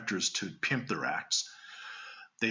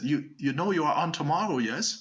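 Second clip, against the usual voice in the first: put-on Hollywood German accent; 4 semitones higher than usual. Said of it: "I gotta switch to my Hollywood German".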